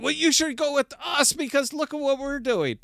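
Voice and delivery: mocking impression. Mocking the chain's sales pitch.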